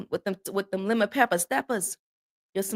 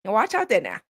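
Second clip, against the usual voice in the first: mimicked Southern country uncle; playful Southern uncle impression; country uncle's Southern accent. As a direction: put on a down-home Southern accent. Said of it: "that's how my uncle talk".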